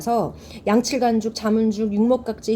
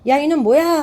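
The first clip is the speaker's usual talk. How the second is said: louder, higher acted rebuke; mock scolding; 4 semitones higher, 5 dB louder than usual. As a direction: scold like an offended nobleman, lightly acted. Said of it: "하고 호통을 쳐요". (양반의 호통 흉내)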